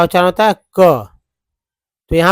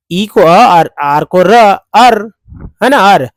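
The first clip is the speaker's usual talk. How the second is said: emphatic drill; 2 semitones higher, 5 dB louder, slower than usual. Shown as a demonstration. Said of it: "अर बोलते हैं".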